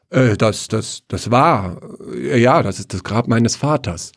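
halting stammer with ums; nervous son stuttering at the grave. Acted. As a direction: stumble over the words, caught off guard. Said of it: "stotterte er eine Antwort".

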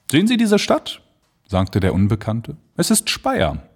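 viel höher und etwas lauter; stranger pointing out. Acted. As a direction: zeigt stolz hinunter. (der Unbekannte zum Erzähler, hinweisend)

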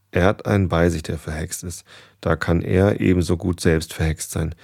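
measured read-aloud storytelling voice; story narration. Acted. Narrator reads a goose tale to listeners, story narration.

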